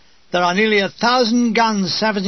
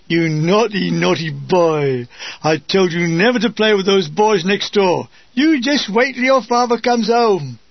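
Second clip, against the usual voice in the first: scolding mother; 4 dB louder than usual. Acted. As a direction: play a nagging mother, hammed-up. Natch scolds muddy Edgington like mother.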